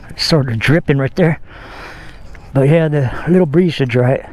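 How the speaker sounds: breathless after wiping the bike; out of breath. Real, not acted. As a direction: talk while catching your breath. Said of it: "I'm all out of breath".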